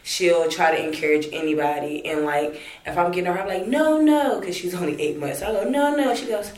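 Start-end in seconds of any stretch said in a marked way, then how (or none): 3.7-4.4 high, playful no no, much higher; cooing no no to a baby. Retold or imitated. To her eight-month-old daughter. 5.7-6.1 high, playful no no, much higher; cooing no no to a baby. Retold or imitated. To her eight-month-old daughter.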